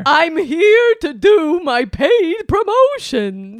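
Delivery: boisterous birthday clown. Acted. Plays Birthday Bunny throughout.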